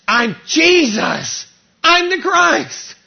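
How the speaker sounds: slow, loud and weighty; solemn declaration. Acted. Jesus telling Saul who he is, slow and solemn. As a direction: declare it slowly with authority.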